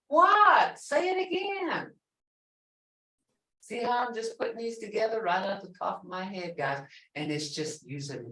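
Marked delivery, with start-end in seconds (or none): 0.1-1.9 playful call to repeat. Shown as a demonstration. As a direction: urge the class on. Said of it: "teacher coaxing class".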